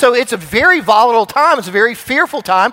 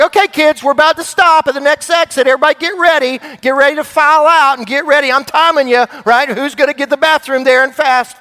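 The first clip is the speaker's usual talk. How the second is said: put-on raised, higher voice hurrying the kids along; dad announcing the stop to the kids, raised voice; calling out to kids; 4 semitones higher than usual. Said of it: "I'm like".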